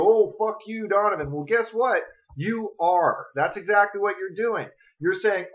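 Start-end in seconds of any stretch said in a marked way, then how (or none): 0.0-1.3 louder, higher mock outburst; hammed-up indignant retort; mock angry viewer. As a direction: imitate an offended viewer snapping back. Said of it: "get pissed off and angry and go".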